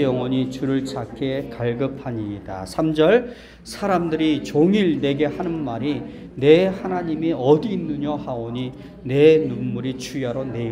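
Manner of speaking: slow, measured congregational recitation; scripture reading. Real, not acted. Preacher leads congregation in reading the psalm, slow recitation. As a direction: read it out in drawn-out, even phrases.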